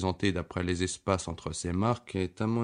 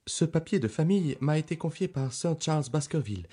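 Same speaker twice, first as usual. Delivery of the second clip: put-on a higher, eager young doctor; the young country doctor answering Holmes; eager Dr Mortimer; 4 semitones higher than usual. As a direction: pitch him up, keen and earnest. Reader voices Dr Mortimer.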